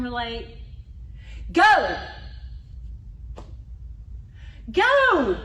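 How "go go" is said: loud, higher impatient "Go!"; impatient driver. Retold or imitated. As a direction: hurry the slow car in front. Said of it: "in the car and somebody is not moving".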